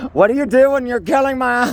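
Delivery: shrill high-pitched outrage; high shriek. Acted. Shrieking acted outburst.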